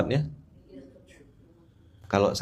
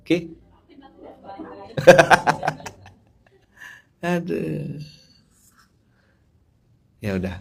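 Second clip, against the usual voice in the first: ordinary talk, nothing marked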